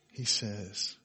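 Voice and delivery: normal talking voice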